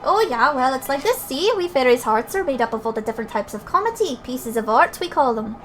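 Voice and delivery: put-on Scottish-accented fairy banter; lively fairy characters. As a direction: play cheeky, chatty fairies in dialect. Reads fairy dialogue in put-on accent.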